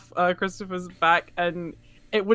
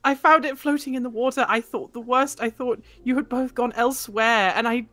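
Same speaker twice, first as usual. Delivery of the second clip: tearful relief. Acted. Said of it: "half crying".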